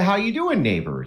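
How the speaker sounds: lightly voiced high greeting dropping on "neighbor"; friendly neighbor. Wishing for pleasantries first, imitates a friendly neighbor. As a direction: sing out a folksy hello, then drop.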